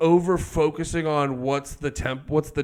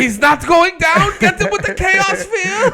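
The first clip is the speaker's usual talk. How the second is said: comic-book villain; 4 dB louder than usual. Acted. Villain ordering henchmen to attack, cartoonishly panicked. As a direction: command it like a hammed-up comic villain. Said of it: "they sound like comic book fucking villains".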